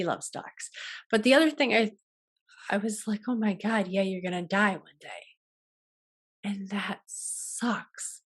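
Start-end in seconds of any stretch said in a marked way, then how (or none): 3.3-8.2 softer, tearful voice that slows and sinks, then rushes; retold crying. Recalling crying over losing her partner someday, soft and teary. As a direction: let it catch and fade the way crying does. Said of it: "he felt so bad for making me cry".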